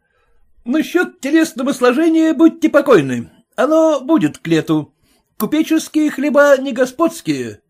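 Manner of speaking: a servant selling himself to the merchant; boastful lackey. A narrator's reading.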